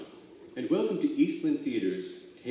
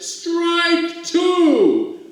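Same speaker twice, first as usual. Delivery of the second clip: high, loud umpire call; umpire's call; 13 dB louder than usual. Acted. Umpire calls strike two over the crowd, loud high call. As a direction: bark the strike out. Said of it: "and the umpire said".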